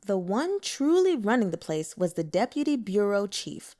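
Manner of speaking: usual speaking voice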